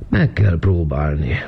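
sleepy echo stretched by a yawn. A narrator's reading. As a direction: yawn right through the words. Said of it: "ásított Vizi".

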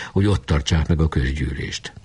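plain reading voice

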